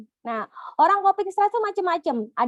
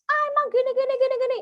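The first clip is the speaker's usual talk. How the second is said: high, exasperated nagging; scolding mother; 10 semitones higher, faster than usual. Retold or imitated. Parent nagging a crying child, high mock exasperated scolding. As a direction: snap back at the child in mock irritation. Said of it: "kita langsung ngomel juga".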